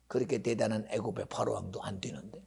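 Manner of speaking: hushed unvoiced aside; dramatic whisper. Preacher whispering to the congregation about Pharaoh. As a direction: lean in and whisper it.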